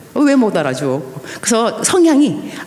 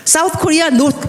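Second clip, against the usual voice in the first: mock surprised question; 9 semitones higher, much slower than usual. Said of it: "No, your Korean name".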